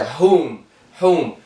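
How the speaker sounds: "هوم" begun with an H pushed from the belly; breath H from navel. Shown as a demonstration.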